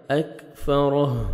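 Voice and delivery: slow "اکفرہ" ending on a breathed h; audible final ha. Shown as a demonstration. Teacher showing the stop, "اکفرہ" with audible final h. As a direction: finish "اکفرہ" on a sounded still ha. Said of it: "ہا کا sound آئے گا".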